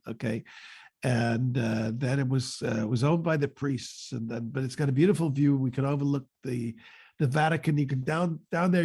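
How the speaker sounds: boastful Trump voice, lightly done; Trump impression. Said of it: "I get Trump to explain where they are".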